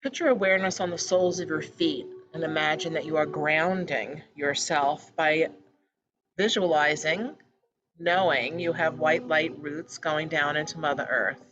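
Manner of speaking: measured meditation-guide voice with pauses between phrases; calm, evenly paced meditation leading; guided meditation. Real, not acted. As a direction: guide listeners gently, phrase by phrase. Leads a meditation.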